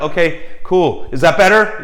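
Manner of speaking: eager model. Retold or imitated. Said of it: "You're like".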